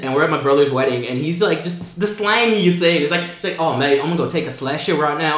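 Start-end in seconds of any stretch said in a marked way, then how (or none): 3.6-5.4 rough imitation Kiwi accent; casual, almost-there Kiwi accent. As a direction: imitate a New Zealand cousin's slang. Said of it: "Your Kiwi accent is almost there".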